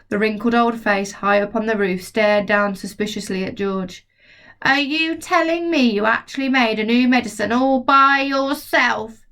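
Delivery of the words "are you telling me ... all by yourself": grandma shouting. Acted. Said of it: "she shouted".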